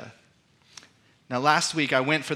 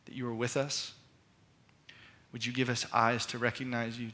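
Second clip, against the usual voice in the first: prayer. Acted. Leads congregation in prayer.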